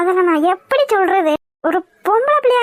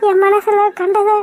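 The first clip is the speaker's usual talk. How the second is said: crying. Acted. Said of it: "ஏன் இப்ப அழுதுட்டு இருக்க?".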